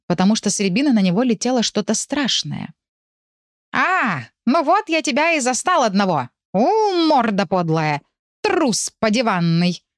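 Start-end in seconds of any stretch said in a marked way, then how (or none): 3.7-9.8 higher, hissed furious threat; angry hissing cat. Acted. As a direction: hiss it out like an angry tomcat. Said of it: "зашипел кто-то рядом".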